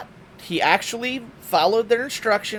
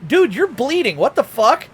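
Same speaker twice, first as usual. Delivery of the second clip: loud, high panicked yell; alarmed yell; 6 semitones higher, 7 dB louder than usual. Retold or imitated. Telling dad he is bleeding, loud alarm. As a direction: shout it at the hurt man. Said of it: "I'm like".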